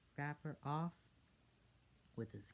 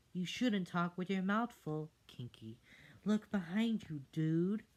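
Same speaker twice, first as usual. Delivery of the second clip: character voice; 6 semitones higher, 8 dB louder than usual. Acted. Character warns friend.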